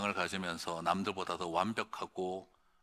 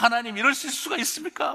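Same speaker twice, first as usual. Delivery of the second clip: high, loud re-enacted outcry at God; yelled protest; 8 dB louder than usual. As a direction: shout an indignant complaint to heaven. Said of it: "막 질렀는데 한참 막".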